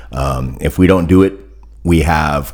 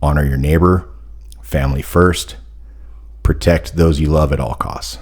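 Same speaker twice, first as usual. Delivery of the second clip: formal toast. Real, not acted. Delivers a toast.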